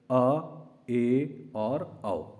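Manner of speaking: अ, ए और औ drawn out slowly, mouth half open; slow vowel demo. Shown as a demonstration. Teacher slowly voices अ, ए, औ for the class, mouth half open. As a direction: stretch each vowel अ, ए, औ long and open. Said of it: "ऐसे".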